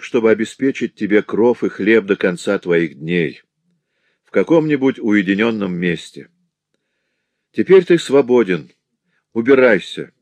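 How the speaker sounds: loud, firm pronouncement; commanding voice; stern command. Acted. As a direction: sentence him firmly. Prince pronounces sentence.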